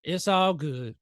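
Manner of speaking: low, easygoing shrug; understated chill resignation; resigned calm. Retold or imitated. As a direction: let it go coolly. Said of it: "I'm like".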